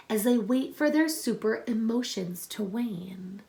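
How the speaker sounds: put-on reading a picture book aloud to children; story reading. Teacher reading a superhero book to her class, storytelling voice.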